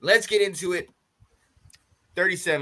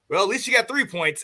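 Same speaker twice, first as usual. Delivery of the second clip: teasing laugh; 4 semitones higher than usual. Retold or imitated. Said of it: "He said".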